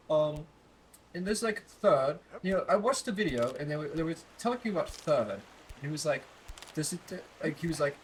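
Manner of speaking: put-on British accent, explaining. Shown as a demonstration. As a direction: lecture in an amateur British accent. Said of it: "I'm talking like it all the time".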